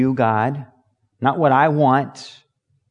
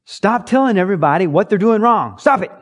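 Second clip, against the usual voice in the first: exasperated plea; 5 semitones higher, 4 dB louder than usual. Acted. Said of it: "people finally look at you and go".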